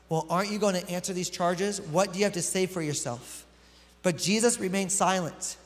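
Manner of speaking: calm, measured reading of the Bible passage; scripture reading. Acted. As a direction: read the passage steadily to the congregation. Reads the Bible passage aloud.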